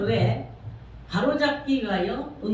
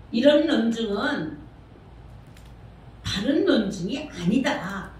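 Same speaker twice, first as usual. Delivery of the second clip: slow emphatic verdict; slower than usual. Shown as a demonstration. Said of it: "slow emphatic verdict".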